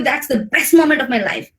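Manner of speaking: "best" punched out as the peak; emphatic "best", the rest falling away; stress on best. Shown as a demonstration. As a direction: lean hard on "best" with excitement. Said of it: "my voice stress the word best".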